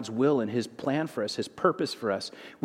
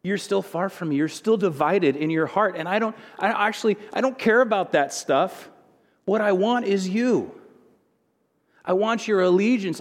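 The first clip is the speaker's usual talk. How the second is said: earnest, higher voice of Jesus pleading for devotion; Jesus speaking; 5 semitones higher than usual. Retold or imitated. Preacher voicing Jesus to a believer, earnest and raised. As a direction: speak as Jesus, gently insisting he wants the heart. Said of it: "And Jesus is going".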